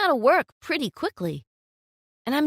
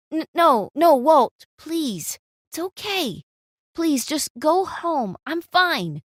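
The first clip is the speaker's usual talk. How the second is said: pleading; 5 semitones higher, 4 dB louder, slower than usual. Acted. Model begs boyfriend to leave.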